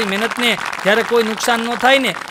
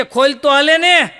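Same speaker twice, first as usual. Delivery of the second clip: laughing retort; 2 semitones higher than usual. Acted. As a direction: deliver the answer with a chuckle. Wise man answers shopkeeper.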